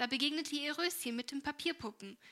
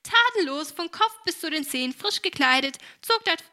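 higher and much louder, a hammed-up tale; lively mock storytelling; 6 semitones higher, 14 dB louder than usual. Helene tells her mother the tale with theatrical gusto.

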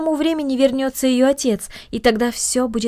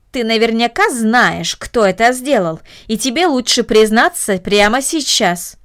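stern aunt; 3 dB louder, slower than usual. Acted. Aunt demands confession.

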